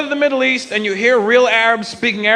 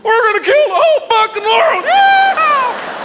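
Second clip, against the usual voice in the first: redneck voice; slower than usual. Acted. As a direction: whoop it like a wild redneck. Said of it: "translate their Arabic accent into an American accent".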